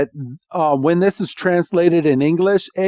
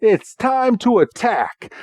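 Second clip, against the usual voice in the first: tag; 7 semitones higher than usual. Retold or imitated. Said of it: "Jesse's like".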